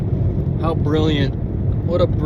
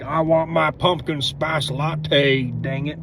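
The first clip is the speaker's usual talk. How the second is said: redneck; slower than usual. Retold or imitated. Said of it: "see a redneck like".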